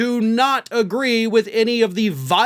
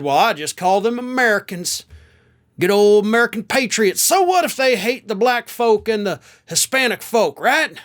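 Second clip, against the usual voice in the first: Tommy Tuberville. Retold or imitated. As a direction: put on a folksy Southern senator's accent. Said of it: "I'm using that accent".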